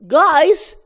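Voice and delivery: high, loud cry for help; panicked shout. Acted. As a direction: call out to his friends in fright. Barry picked up with ball.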